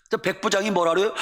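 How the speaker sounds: ordinary delivery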